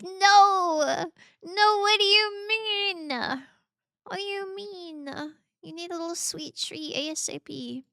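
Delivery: high, loud playful outrage; mock protest. Playfully protesting a friend who ignores their birthday. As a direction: play the indignant friend. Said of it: "I'm like".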